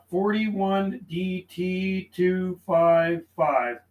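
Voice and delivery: forty-one D T two five five, each part slow and spaced while writing it down; slow dictation. Shown as a demonstration. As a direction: read the callsign out slowly, as if noting it. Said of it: "I logged him down".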